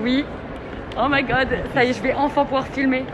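excited. Real, not acted. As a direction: gush with relief and joy. Thrilled about her new phone. (voix ravie, aiguë et forte)

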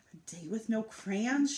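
a lightly voiced grumble; grumbling. Liza alone in the bathroom, understated grumble. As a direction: mutter it under a mild frown. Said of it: "she grumbled".

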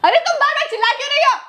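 angry retort. Acted. Shouting back in the quarrel.

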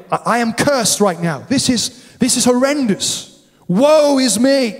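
rising, pleading cry of a man undone; a lightly acted despairing Isaiah, slowing on woe is me; anguished Isaiah. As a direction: play the prophet crushed by guilt, pitch climbing. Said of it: "But the word woe".

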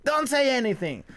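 high-pitched mock upset girlfriend; fighting while crying. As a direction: imitate a tearful partner pushing you away. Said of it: "the people that's still fighting while crying".

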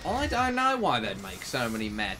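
exaggerated Australian vowels; playful Australian twang; mock Australian accent. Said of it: "doing it in an Australian accent".

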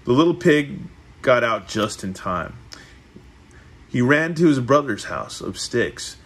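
measured read-aloud with lifted phrase openings; storybook narration. A narrator's reading. Reading the three little pigs to a listener, storybook narration. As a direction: read it like a picture book.

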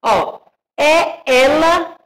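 "é ela" asked slowly, pitch rising into a question; questioning tune. Shown as a demonstration. Teacher showing pupils how a question sounds, slow rising "é ela". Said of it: "interrogando, estou perguntando".

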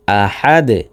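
"আহাদে" with a bounced final d; pausal pronunciation. Shown as a demonstration. Teacher shows the stop form, qalqalah on "আহাদে". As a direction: stop on "আহাদে", echoing the d briefly. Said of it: "ওয়াকফ করলে".

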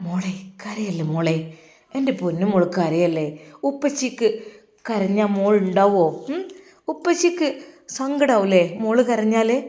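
a father softly consoling; comforting father. Acted. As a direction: hush the crying child gently. Father comforts crying daughter.

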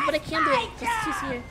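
panting while talking; out of breath. Real, not acted. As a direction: talk between breaths. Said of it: "sound like you're out of breath".

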